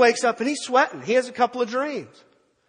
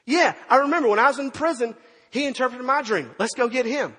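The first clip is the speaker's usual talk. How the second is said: excited recollection; 4 semitones higher than usual. Acted. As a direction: act out a sudden eager realisation. Cupbearer suddenly remembers Joseph.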